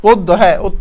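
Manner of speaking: ওদ্দ said with doubled d, short o; teacher modelling ওদ্দ; model pronunciation. Shown as a demonstration. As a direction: say ওদ্দ as od-do, clipped. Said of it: "ছোট করতে হচ্ছে ওদ্দ".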